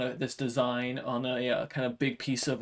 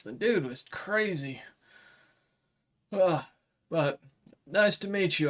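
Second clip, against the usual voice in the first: a blunt samurai making a deal; dragonkin warrior; 2 semitones higher than usual. Acted. GM voices Kuroshiba.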